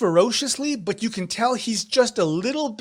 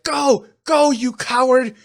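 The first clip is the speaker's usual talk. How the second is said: loud, higher, contemptuous shout; angry taunt; 5 semitones higher, 5 dB louder than usual. Acted. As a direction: hurl it at a coward to wound him. Fighter taunts his fleeing opponent.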